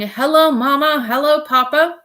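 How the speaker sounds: dismissive wife imitating explorers; mocking the radio men. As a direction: tease the broadcast callers. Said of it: "men at the bottom of the world saying".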